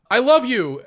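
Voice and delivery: high, loud gushing I love you; squealing mock confession; hammed-up love confession. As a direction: blurt it out way up high. S1 retelling the confession.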